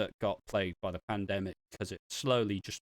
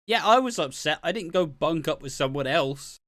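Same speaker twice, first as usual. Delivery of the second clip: loud, higher angry yell at his wife; mock scream; 5 semitones higher, 6 dB louder than usual. Husband yells at wife over the affair, loud and higher. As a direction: shout it at her like a furious husband. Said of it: "screams at her".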